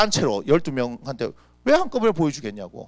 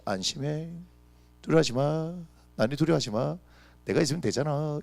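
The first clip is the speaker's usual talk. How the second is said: gentle reassurance; 4 dB quieter than usual. Acted. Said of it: "이렇게 얘기하시는 거예요".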